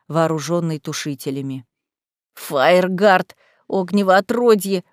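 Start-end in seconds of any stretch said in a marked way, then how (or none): 2.3-4.8 growling. Acted. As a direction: snarl the name Фаергард at him. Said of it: "прорычал разбойник".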